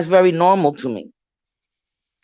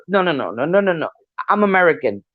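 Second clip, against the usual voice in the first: mother voiced; 3 semitones lower, faster than usual. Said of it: "she would just".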